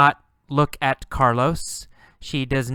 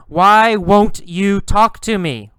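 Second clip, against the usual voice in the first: high, louder pleading question; insistent call; 7 semitones higher, 8 dB louder than usual. Acted. Carlos pressing the girl for an answer, loud. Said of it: "he asks her".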